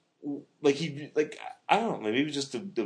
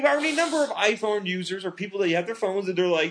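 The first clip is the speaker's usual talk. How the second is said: talking through real laughter; high, giggly words breaking into laughter; laughing tease; 9 semitones higher, 3 dB louder than usual. Real, not acted. Laughing, teasing the co-host.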